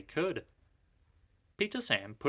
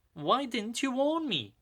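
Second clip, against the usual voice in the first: much higher indignant question; reproachful; 12 semitones higher than usual. A narrator's reading. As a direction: demand an answer. Peter Sam reproaches.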